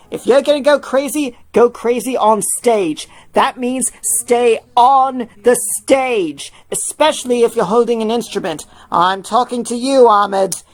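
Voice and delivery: Tim warning. Acted. Tim lecturing the band about the stage, slow and firm. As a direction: spell out the rule slowly.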